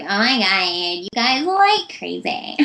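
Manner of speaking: lightly voiced silly girl; goofy voice. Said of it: "always doing some different voice".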